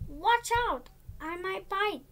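high squawky parrot warning; parrot squawk. Acted. Parrot warning Willy from the window, squawky. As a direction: warn like a cheeky bird.

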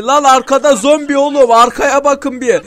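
loud, high warning call; urgent shout. Real, not acted. Gamer warning teammates of a zombie behind, urgent shout. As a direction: make them turn around now.

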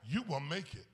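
low and soft, nearly hushed; whispered promise. Acted. Jesus whispering to the listener, soft hushed promise. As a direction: speak it softly as Jesus would. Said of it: "Jesus is whispering to you right now".

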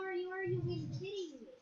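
high-pitched exasperated outburst. Real, not acted. Player at a failed game glitch, exasperated. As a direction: complain loudly in disbelief at the game.

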